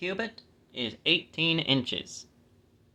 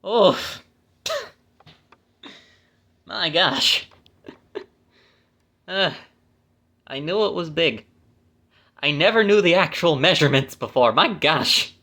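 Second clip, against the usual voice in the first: loud, higher-pitched real astonishment; amazed; 5 semitones higher, 7 dB louder than usual. Real, not acted. Finding out how big the bed was, amazed. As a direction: blurt it out, stunned by the number. Astonished at his own sum.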